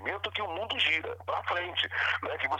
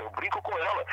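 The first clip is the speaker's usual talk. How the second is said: normal talking voice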